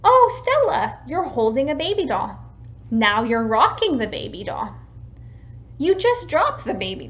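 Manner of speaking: put-on describing a child's play. Shown as a demonstration. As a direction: narrate Stella's play to her. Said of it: "An example of this would be".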